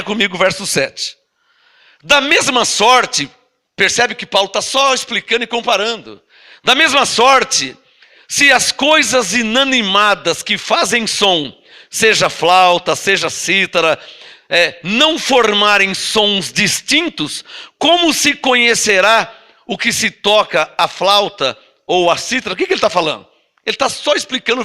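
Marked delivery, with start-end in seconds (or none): 2.0-3.3 slow scripture reading. Acted. Reads scripture aloud slowly. 6.6-22.5 slow, weighty reading of the Bible verse; slow scripture reading. Acted. Pastor reading Corinthians to the church, slow and solemn. Reads scripture aloud slowly.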